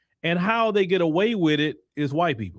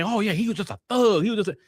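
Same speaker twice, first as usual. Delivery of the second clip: retold dismissal; 3 semitones higher, faster than usual. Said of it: "and they would just say".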